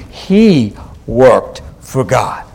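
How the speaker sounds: slow, deliberate "he worked for God"; emphatic. Real, not acted. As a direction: set "he" apart, then "worked for God" slowly. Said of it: "I want to emphasize that point".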